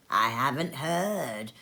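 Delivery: slow, yawned-out reply; lazy, yawning merchant. Acted. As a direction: let a yawn drag through it. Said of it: "yawning again".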